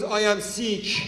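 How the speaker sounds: slow, drawn-out mock suffering; biggest victim ever. Friend excusing himself to the officer, slow mock victim. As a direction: drag it out like a pitiful Iranian victim. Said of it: "turn into the biggest victims ever".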